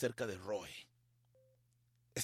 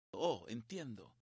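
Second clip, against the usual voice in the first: slow, low, soft "oh"; quiet realization; 6 semitones lower, 8 dB quieter, slower than usual. Retold or imitated. Man realizing his calls are blocked, quiet realization. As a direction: let it sink in quietly. Acting reaction to being blocked.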